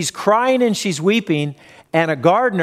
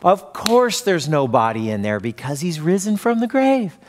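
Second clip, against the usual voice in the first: imagined disciples' reply. Retold or imitated. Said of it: "what my expectation reading the story was".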